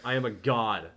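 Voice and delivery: booming mock god voice; dark lord. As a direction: command them to kneel, grandly. Boasting as a deity.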